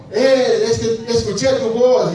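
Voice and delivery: offhand, unbothered excuse with a lift; casual excuse. Retold or imitated. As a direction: toss off the excuse like it's nothing. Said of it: "no creo que estaba así".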